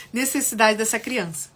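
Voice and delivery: laughing off a hiccup; hiccuping mid-sentence. Real, not acted. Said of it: "Desculpa, tô com soluço".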